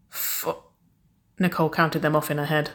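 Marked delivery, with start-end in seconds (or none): 0.1-0.6 barely voiced, hushed question; faint whispered echo. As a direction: whisper it under your breath. The number repeated under the breath.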